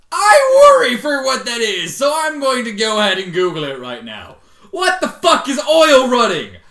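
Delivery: loud, high-pitched disbelieving tirade; exasperated rant. Real, not acted. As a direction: yell it at the audience. Reader ranting at the text.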